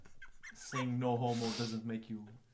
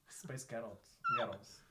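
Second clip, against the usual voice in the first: Scottish accent. Shown as a demonstration. Co-host copying the trick phrase, light Scottish accent. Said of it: "That's how you say Space Girls in Sc".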